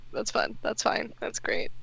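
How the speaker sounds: sarcastic whisper. Acted. Grumbling sarcastically to self.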